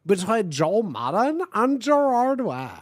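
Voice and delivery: ordinary delivery, nothing marked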